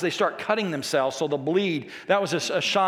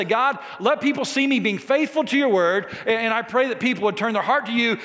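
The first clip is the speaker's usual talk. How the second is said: earnest appeal in a slightly raised voice; bold prayer; 3 semitones higher than usual. Shown as a demonstration. Preacher modelling a prayer for the congregation, bold. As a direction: pray it out boldly. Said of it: "a bold prayer to say".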